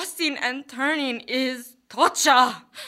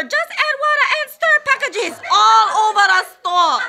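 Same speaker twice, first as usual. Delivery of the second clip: flirty ad voice; 7 semitones higher, 6 dB louder than usual. Acted. Ad slogan voiced, high.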